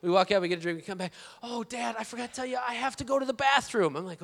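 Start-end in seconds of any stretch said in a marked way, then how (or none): 1.4-3.9 lightly voiced, higher little-kid voice; a hint of a pleading small child; three-year-old daughter. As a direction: imitate a child remembering a need. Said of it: "And she says".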